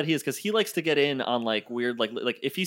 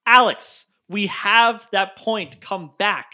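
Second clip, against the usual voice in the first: raised call to a teammate; 7 semitones higher, 7 dB louder, much slower than usual. Retold or imitated. Calling a wandering teammate back, raised voice. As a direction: shout him back toward the point.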